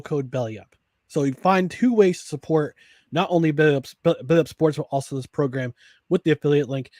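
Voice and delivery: upbeat sponsor read over music. Acted. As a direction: sell it like a radio ad. Host reads sponsor ad.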